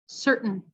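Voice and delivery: "certain" with the T stopped in the throat; American glottal T. Shown as a demonstration. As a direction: swallow the T. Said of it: "then with a glottal".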